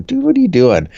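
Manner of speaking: high, loud laughing "what are you doing"; laughing disbelief. Retold or imitated. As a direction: laugh it out at the guy. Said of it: "we're looking at him going".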